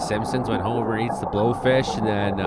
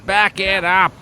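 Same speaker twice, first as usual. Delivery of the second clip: high, loud shouts of back it up; urgent yelling; 10 semitones higher, 6 dB louder, slower than usual. Real, not acted. Shouting at the boaters in the video, high and urgent. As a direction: yell at the boat to reverse. Urging boaters away from splash.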